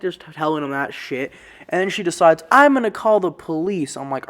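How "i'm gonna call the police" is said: high, loud declaration; angry mom threat. Retold or imitated. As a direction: announce it like an outraged mother. Mom furiously decides.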